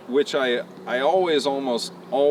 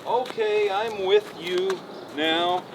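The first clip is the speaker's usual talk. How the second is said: voicing the horse; slower than usual. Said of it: "I wanna see him go".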